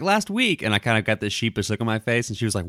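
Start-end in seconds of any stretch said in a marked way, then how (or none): 0.0-0.6 imitating his wife, pitched up high and slow; husband voicing his wife's accusation, high and slow; wife's accusing voice, high. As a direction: play the wife catching him out.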